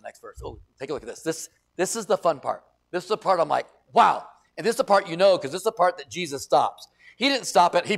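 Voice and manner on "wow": loud, bright wow of wonder; amazed wow. Real, not acted. Preacher amazed by the text, loud delighted wow. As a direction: marvel at the verse.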